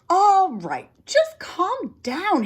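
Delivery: high, flustered plea to calm down; calming the buzzing brother, flustered. Acted. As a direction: soothe him while rattled. Calming an angry fly.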